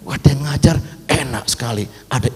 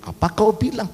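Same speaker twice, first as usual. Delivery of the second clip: put-on high, rising Batak-accented question; 7 semitones higher than usual. Preacher imitating a Batak Maria questioning the angel, Batak accent. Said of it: "kalau dia orang Batak begitu ya".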